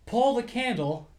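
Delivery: high, slow, laughing; high silly voice. Retold or imitated. Quoting Igor.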